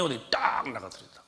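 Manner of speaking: usual speaking voice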